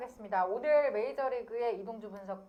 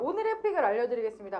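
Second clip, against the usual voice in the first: weather caster; faster than usual. Shown as a demonstration. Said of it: "기상캐스터처럼".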